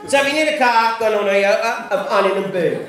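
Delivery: London Cockney sponsor read, no T's; Cockney, swallowing T's in "Toyota" and "Huntington"; Cockney radio host. Acted. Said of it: "say that every day without a T sound".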